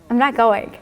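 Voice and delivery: playful refusal breaking into a laugh; smiling refusal. Retold or imitated. Patient smiling at the hummingbird at her window, playful refusal. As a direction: refuse with a smile, about to laugh. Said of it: "I started smiling".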